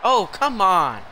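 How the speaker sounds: frustrated gamer groaning out words; exasperated protest. Real, not acted. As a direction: protest loudly at the game. Protests at game going wrong.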